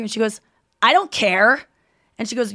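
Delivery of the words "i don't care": mock rude rebuff; curt, emphatic brush-off; dismissive retort. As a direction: shut the stranger down. Woman rebuffs Anya in retold quarrel.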